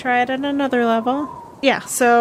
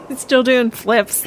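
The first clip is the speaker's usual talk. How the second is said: laughing. Real, not acted. Table laughing at the joke.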